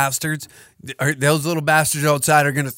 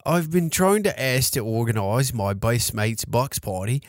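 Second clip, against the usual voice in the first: dropped Aussie accent. Shown as a demonstration. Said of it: "okay, I'm not gonna do that".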